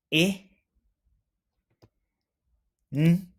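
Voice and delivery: "I, N, F, L, U, E, N, S" each letter alone with long pauses; spelling letter by letter. Shown as a demonstration. Teacher spells the word for students to repeat, letter by letter. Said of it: "Say all the sounds you hear".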